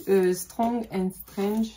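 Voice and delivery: slow, drawn-out hammed-up English accent on "Strong and Strange"; mock English accent. Vlogger shows off the English book title to viewers, in a slow mock English accent. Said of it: "J'ai un accent anglais magnifique".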